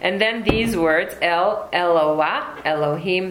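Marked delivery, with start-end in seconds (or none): 1.2-3.3 El, Eloah, Elohim said slowly one by one; teaching the names clearly; slow Hebrew names. Shown as a demonstration. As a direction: read El, Eloah, Elohim out deliberately. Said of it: "the reason why I'm pronouncing them".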